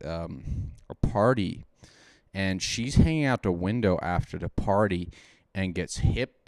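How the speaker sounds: tipsy, drinking while talking. Real, not acted. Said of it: "We're concerned for our buddy Chris".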